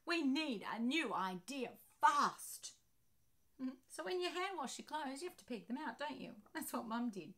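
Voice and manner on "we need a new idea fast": urgent. Acted.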